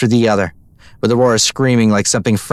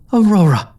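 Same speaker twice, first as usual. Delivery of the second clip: calling her name; 10 semitones higher than usual. A narrator's reading. Getting her attention.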